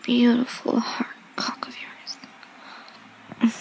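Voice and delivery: breathy seductive ASMR whisper; sultry whisper. Acted. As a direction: whisper close to the mic, teasing.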